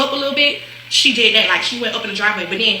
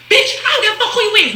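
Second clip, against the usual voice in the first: higher, fast laughing mock yell; retold arguing; 9 semitones higher, faster than usual. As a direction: bark it like you don't care who they are. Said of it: "I'm like".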